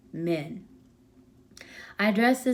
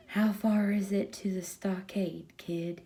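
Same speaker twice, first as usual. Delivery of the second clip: softer husky, worn-out question; 4 dB quieter than usual. Acted. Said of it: "in a husky manner of voice".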